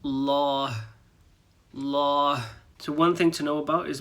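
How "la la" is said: la with an open A; open la ending. Shown as a demonstration. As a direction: stress the final la of Rahmatullah. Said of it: "you can hear right at the end".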